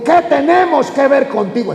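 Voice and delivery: half-strength demon's cry; mild acted cry. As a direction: lightly act out the possessed man crying out. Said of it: "comenzó a gritar".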